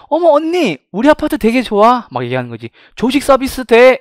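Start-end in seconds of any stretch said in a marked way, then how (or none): 0.1-2.1 high, loud apartment resident's gushing boast; bragging resident. Acted. Resident tells an older girlfriend about her apartment, high gushing brag. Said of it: "지금 살고 있는 애가 이렇게 얘기하는 거지". 3.0-4.0 high, loud apartment resident's gushing boast; bragging resident. Acted. Resident tells an older girlfriend about her apartment, high gushing brag. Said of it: "이렇게 얘기하는 거죠".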